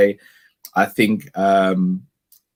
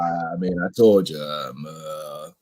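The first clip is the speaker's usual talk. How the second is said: lightly voiced smug manager, lower and slow; a hint of a smug manager gloating; mock Brendan; 4 semitones lower than usual. Podcaster mocking a manager's title speech, lightly put-on smug voice.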